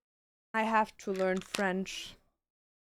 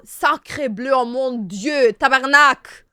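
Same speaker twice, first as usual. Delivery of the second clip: French swears; 10 dB louder than usual. Pretend. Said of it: "You have to learn the French swears first".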